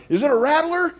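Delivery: loud, high call down the stairs; husband yelling down to his wife; yelled question. Retold or imitated. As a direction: shout it down to the basement.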